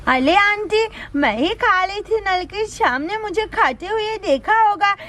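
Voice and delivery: put-on lisping childish explanation; apologetic little child. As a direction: explain to an aunt like a small child.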